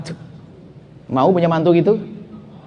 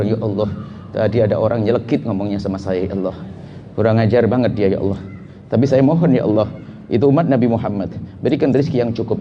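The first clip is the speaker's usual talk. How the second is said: prayer; 6 semitones lower than usual. Shown as a demonstration. Acting out a personal prayer.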